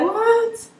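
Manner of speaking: high, loud incredulous "what"; retold surprise. Student recalling her reaction to an unfamiliar course, astonished.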